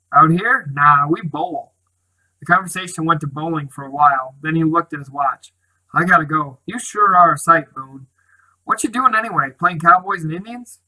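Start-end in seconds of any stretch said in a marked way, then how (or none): 0.1-1.7 a loud "Out here?", then a slow, drawn-out "Nah, we bowl."; offhand. Acted. Town boy brushes off gang question. 5.9-10.8 a lightly voiced town boy, louder and ribbing; teasing town boy.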